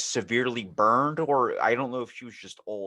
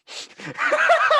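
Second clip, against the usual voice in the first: shrieking laugh, much higher and louder; high burst of laughter; 8 dB louder than usual. Real, not acted. Cohost laughing at his own joke, high shrieking laugh. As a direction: crack up high and loud.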